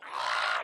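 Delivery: sudden loud cry, cut short; imitated cry of a crash victim; acted scream. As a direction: burst out with a brief yell. Little girl thrown in crash.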